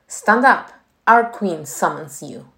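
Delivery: loud, clipped command; military order. Acted. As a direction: order him up like a drill colonel. Colonel orders the new termite.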